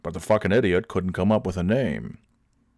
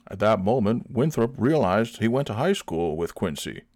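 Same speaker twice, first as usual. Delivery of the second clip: ordinary talk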